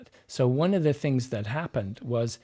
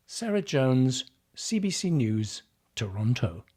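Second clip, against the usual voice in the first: reporter sign-off. Retold or imitated. Voice coach imitates a reporter ending her report, reporter sign-off. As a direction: sign off like a radio reporter, dropping away on the city. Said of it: "she also would use that".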